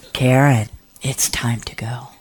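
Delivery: low, firm call, then softening; insist, then ease off gently; mildly stern retold summons. Acted repeated summons, firmer.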